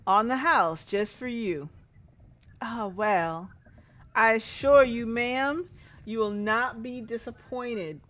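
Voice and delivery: loud coaxing sales voice; pushy salesman. Acted. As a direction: coax the housewife into a sample. Salesman pushing a sample.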